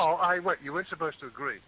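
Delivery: high, loud mock protest; mock indignation. Real, not acted. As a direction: act wounded and affronted.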